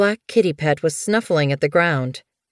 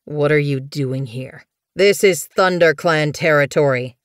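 growling threat. Acted. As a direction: confront a trespasser with a growl. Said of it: "A growl rumbled in Thistleclaw's throat".

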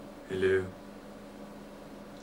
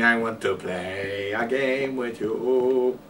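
creepy voice; 6 dB quieter, much slower than usual. Retold or imitated.

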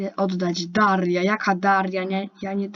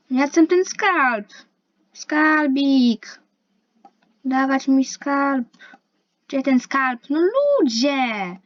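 whiny demand; 4 semitones higher, 5 dB louder, slower than usual. Acted. Demanding the treasure childishly.

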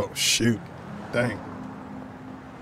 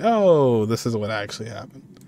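mock explanation. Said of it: "Then you can explain".

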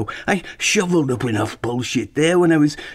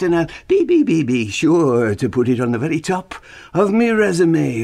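put-on phony Irish accent. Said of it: "apologize for the phony Irish accent".

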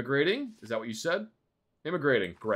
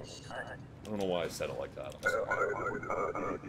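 sheepish; 7 semitones lower, 7 dB quieter than usual. Real, not acted. Embarrassed after odd outburst.

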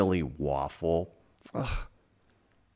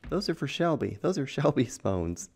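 high, chiding little fish voice; scolding fish; 9 semitones higher than usual. Pretend. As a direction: warn them off like a bossy fish. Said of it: "These fish are like".

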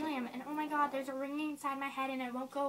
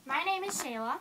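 helium voice; 3 semitones lower than usual. Real, not acted. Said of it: "suck the helium out of this balloon".

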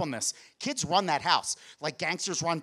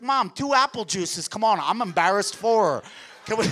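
calling out; 4 semitones higher, 5 dB louder than usual. Retold or imitated. Kid calling mom for juice.

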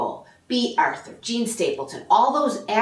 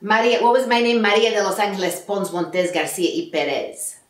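ordinary delivery

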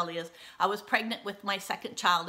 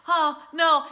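dismayed; 7 semitones higher, 8 dB louder than usual. Retold or imitated. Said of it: "I'm just like".

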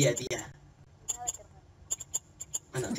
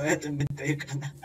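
laughing mimicry; 9 dB quieter than usual. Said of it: "oh, muy gracioso".

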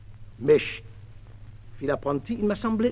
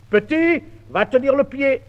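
bossy order; 7 semitones higher than usual. Acted. Master orders the apprentice.

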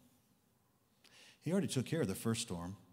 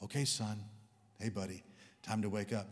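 gentle wake-up; 3 semitones lower than usual. Pretend. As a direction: pretend to rouse a child gently. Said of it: "he would not say".

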